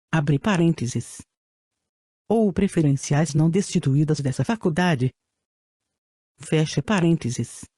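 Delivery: robotic text-to-speech voice; even synthetic reading voice. Real, not acted. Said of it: "com a utilização de voz sintetizada". (voz sintetizada antiga)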